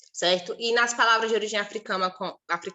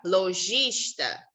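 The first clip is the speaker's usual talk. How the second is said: lojista drawn out very slowly; very slow teaching word; slow example word; much slower than usual. Shown as a demonstration. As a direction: say lojista slowly, each syllable clear.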